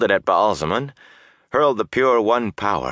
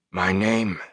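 shivering through chattering teeth. Acted. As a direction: force it out while freezing. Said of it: "forced between chattering teeth".

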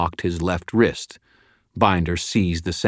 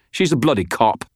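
higher-pitched indignant snap; snapped retort; 6 semitones higher, 3 dB louder than usual. A narrator's reading. Prisoner protesting a threat to kill him, indignant snap. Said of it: "Binder snapped".

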